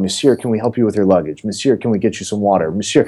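imitating fussy staff with a hint of fake French; lightly mock the attentive French-style hotel staff; lightly faked French accent. Staff pestering a guest with offers, in a light fake French accent. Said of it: "these fake French accents".

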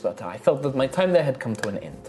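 high, friendly tavern hostess; bubbly innkeeper charming her guests; cheerful halfling innkeeper. Acted. GM voices innkeeper Rosalina.

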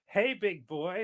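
lightly voiced seductive come-on; sultry voice. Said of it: "in his most sultry voice".

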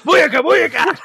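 high, lightly yelled catchphrase; half-hearted imitation of the yell; mock yell. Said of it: "Monk just thought that, like".

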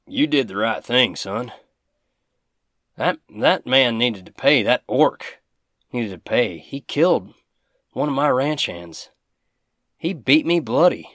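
rancher's righteous anger. Acted. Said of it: "Big Al looks at him".

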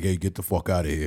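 a big deep-voiced hitman, lightly done; deep-voiced henchman. Hitman shooing the boyfriend away, low. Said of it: "big dude with a deep voice".

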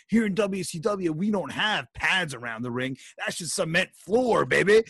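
hyped announcer. Retold or imitated. Commentator quote in announcer hype.

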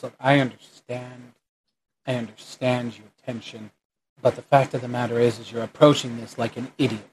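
measured, restrained reasoning with an agitated partner; a hint of a level-headed man, kept down; lightly voiced calm guard. Game master plays the calmer guard.

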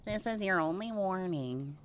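slow, softened mock warning; weak warning. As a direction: deliver a half-hearted warning, softly and slowly. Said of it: "weak stance and be like".

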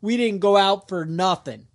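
a hint of a girlfriend covering for him. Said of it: "his girlfriend's like".

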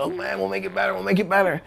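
high, apologetic mimicry; mock placating. Company embarrassed over bounced check, high placating voice.

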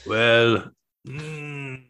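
lightly put-on Croatian accent in broken English. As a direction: play a Croatian hitman, mildly accented. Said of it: "This is Croatian accent".

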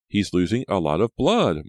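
high, loud worry; alarmed. A narrator's reading. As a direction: report it with rising urgency. Maya alarmed at the bleeding.

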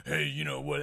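lightly voiced sister; a hint of a put-on voice for the sister; sister impression. Shown as a demonstration. Podcaster showing a bad impression of his sister, lightly put on. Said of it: "I do an impression of my sister".

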